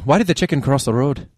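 lightly Irish-accented joke setup. Shown as a demonstration. Host demonstrating a bedroom joke, light Irish accent. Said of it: "tell her jokes in an Irish accent".

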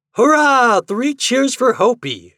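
high, loud hurrah; cheering shout. A narrator's reading. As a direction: cheer like a crowd of boys. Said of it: "shouted all the boys".

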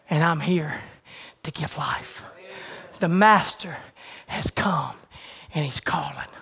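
low, soft reverent proclamation; hushed preaching. Acted. Preacher speaking softly as God to the listeners.

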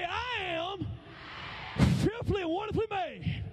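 high declaration for the crowd to repeat; leading a call-out. Shown as a demonstration. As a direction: lead the room in a proud chant. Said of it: "Come on, say".

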